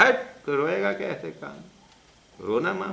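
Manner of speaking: high, loud mock scolding from mother. Mother scolds son for wanting to fake crying, high and loud. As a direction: snap at him like a fed-up mother. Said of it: "माँ ने चिल्लाई मेरे को".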